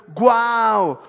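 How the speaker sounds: a loud, amazed "Guau"; amazed wow. Retold or imitated. Preacher voices the amazed crowd, loud wow. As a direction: burst out in wonder. People amazed at God's word.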